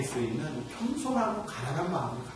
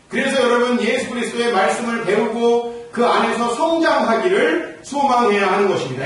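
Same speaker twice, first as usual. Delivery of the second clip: louder, higher ringing sermon voice; preaching at full force; 9 semitones higher, 11 dB louder than usual. Acted. Pastor urging the congregation, full-force preaching. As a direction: exhort the flock with full conviction.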